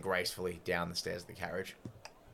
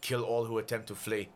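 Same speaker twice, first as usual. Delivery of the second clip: projected official order; lightly voiced commanding official; full-volume command; 2 semitones higher than usual. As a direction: proclaim it over a crowd, mildly raised. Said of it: "still at full volume from his voice".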